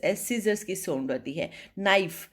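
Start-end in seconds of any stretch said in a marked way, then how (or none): 1.8-2.3 नाइफ said as "naif" with no k sound; silent k. Shown as a demonstration. Teacher showing the silent k in नाइफ. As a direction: start नाइफ straight on the n. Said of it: "नाइफ में के की sound नहीं आती".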